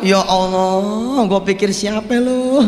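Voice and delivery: drawn-out, delighted "Ya Allah"; stretched-out happy exclamation; glad surprise. Acted. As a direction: recognize an old friend with relief. Malik surprised, greeting old friend.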